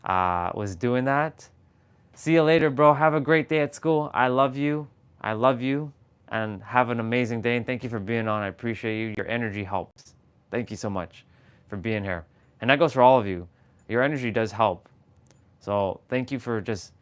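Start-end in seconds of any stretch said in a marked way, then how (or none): 2.1-12.2 sweetly seeing a brother off; imitating Jessa. Sister sending brother off to school, sweet farewell. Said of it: "remember when my soul sister".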